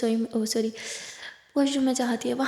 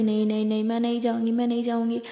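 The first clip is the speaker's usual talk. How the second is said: dramatic whining. Acted. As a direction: whine like a sulky patient, overdone. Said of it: "Aditi बहुत drama करती". (नखरे भरा नाटकीय इनकार)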